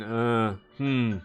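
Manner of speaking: fumble, then call out his name; hesitant father. Acted. Father greets Eldrin, hesitant then loud. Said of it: "your father behind them going".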